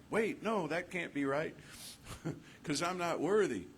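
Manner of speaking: high, flustered "not worthy"; lightly hammed-up fretful refusal; mock self-doubt. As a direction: brush off love like a nervous unworthy soul. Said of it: "it's like".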